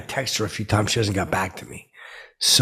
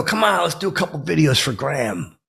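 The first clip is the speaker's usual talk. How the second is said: higher, wheedling plea; retold coaxing; 5 semitones higher than usual. Fan asking departing drummer for videos, coaxing. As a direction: coax them, voice lifted. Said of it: "like that".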